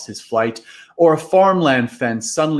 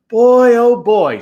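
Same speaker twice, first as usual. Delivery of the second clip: much higher and louder, slow thrilled exclamation; can't contain your pride; proud delight; 10 semitones higher, 8 dB louder, slower than usual. Acted. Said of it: "proud of his witch costume".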